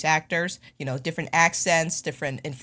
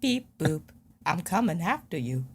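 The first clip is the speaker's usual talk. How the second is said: robot voice. Pretend. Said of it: "I just have person and robot".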